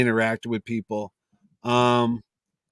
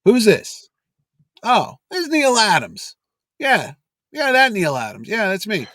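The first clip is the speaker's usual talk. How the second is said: gruff take-charge; 9 semitones higher, 4 dB louder, slower than usual. Retold or imitated. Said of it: "He goes".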